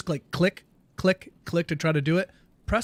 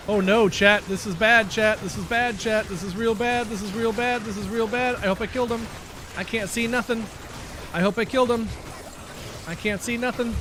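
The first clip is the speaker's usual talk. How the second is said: panicked; 6 semitones higher than usual. Real, not acted. In danger in the game.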